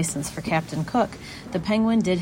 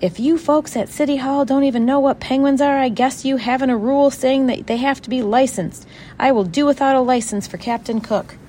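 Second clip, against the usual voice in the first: high, loud indignant tirade; outraged outburst, pitch held high throughout; completely outraged; 8 semitones higher, 6 dB louder than usual. A narrator's reading. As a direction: tell them off at full voice. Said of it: "now completely outraged".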